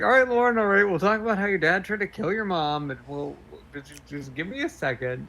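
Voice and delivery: high, weary mock patience; high exasperated voice. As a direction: raise the pitch, sound fed up. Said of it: "It's like".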